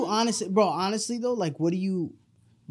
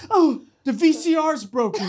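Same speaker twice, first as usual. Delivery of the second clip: high, loud, laughing through it; mom's excuse laughing; 9 semitones higher, 7 dB louder than usual. Retold or imitated. Mom covering for herself, laughing loud. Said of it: "And she's like".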